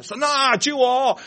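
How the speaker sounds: a toned-down mock plea; milder retold cry. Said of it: "啊，明白我讲啊".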